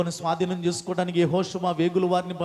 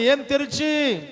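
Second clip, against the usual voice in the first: ఏం తెరిచి called out higher and slower; rousing slow call for a louder answer; louder prompt; 8 semitones higher, slower than usual. Shown as a demonstration. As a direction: push the congregation to shout ఏం తెరిచి. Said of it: "ఇంకొంచెం బిగ్గరగా చెప్పండి".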